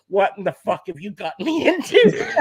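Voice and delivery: imitated appalled buddy, breaking into laughter; rising, half-laughing mock outburst; mock disbelief. Voices buddy's appalled look, laughing.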